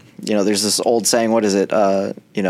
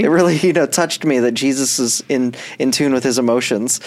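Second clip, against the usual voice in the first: mock-moved, slightly laughing fake report; pretending; 3 semitones higher than usual. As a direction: pretend to be touched, badly bluffing. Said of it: "not pretending, like".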